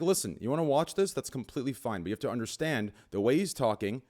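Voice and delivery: acted calm explanation, low and soft; lightly acted parent, voice dropped low; mock parent talk. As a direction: lay it out calmly, as to a child. Acts out talk with his kid.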